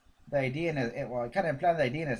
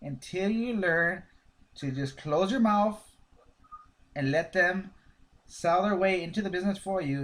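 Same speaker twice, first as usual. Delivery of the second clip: slow and deliberate; 3 semitones higher than usual. Shown as a demonstration. Trainer stressing the key lesson to recruits, slow and emphatic. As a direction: lay each word down for emphasis. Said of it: "listen to this carefully".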